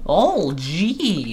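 a hint of a Midwestern granny; Wisconsin grandma. Answering the Olga tease, soft grandma voice. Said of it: "old Wisconsin grandma".

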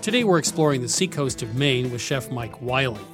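lively radio show intro; upbeat travel show host. Acted. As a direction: announce the episode with energy. Show intro over music.

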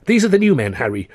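high, eager and coaxing; wheedling. A narrator's reading. Manager presents new men, high and wheedling. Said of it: "Buxton wheedled".

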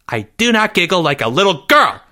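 high, outraged denial; indignant yell. A narrator's reading. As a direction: yell it back in protest. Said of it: "Jeffrey yelled".

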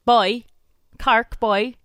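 light stab at a Cork accent; attempted Cork accent. Shown as a demonstration. Co-host trying out Cork, attempted Cork accent. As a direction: have a modest go at Cork. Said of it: "That's all I can say".

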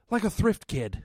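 matter of fact, disappointed. Retold or imitated. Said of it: "The delivery was really like".

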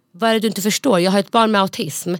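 frustrated push at the staff member; retold anger. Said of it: "Och jag var så förbannad".

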